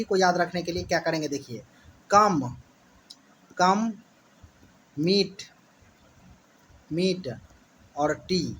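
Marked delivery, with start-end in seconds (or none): 2.1-8.6 "कम", "मीट", "टी" one at a time; long gaps between "कम", "मीट" and "टी"; word split into chunks. Shown as a demonstration. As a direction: dictate each piece separately. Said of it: "कमिटी को कैसे याद रखेंगे".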